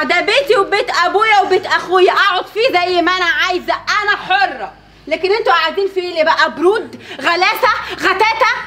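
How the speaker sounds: loud, scornful jeering with laughs; angry mocking retort. Wife jeering at in-laws in her house, loud and scornful. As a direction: throw the insults in her face. Quarrel continues, insults.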